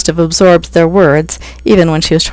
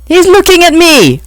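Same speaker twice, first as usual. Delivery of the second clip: much higher, louder whiny pixie shout; 13 semitones higher, 6 dB louder than usual. A narrator's reading. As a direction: tattle like a child. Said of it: "Ron shouted".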